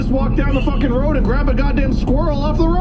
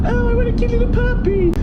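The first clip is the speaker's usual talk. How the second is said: sweet pet seller; 12 semitones higher than usual. Retold or imitated.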